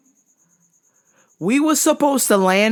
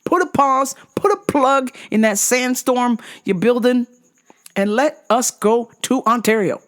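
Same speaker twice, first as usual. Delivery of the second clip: mock prayer; 4 semitones higher than usual. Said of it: "I was like, Please, Jesus".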